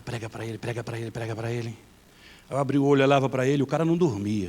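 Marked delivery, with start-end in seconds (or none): 0.0-1.8 urgent inner voice. Retold or imitated. Nagging inner voice urging him.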